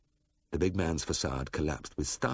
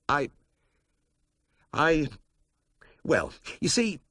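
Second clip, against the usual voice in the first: gabbling; 8 semitones higher, 4 dB louder, slower than usual. A narrator's reading. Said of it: "I was beginning to gabble".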